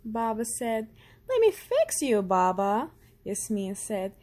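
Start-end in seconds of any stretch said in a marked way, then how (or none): 1.3-2.9 girl playing doctor; eager child. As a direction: offer it like a keen little helper.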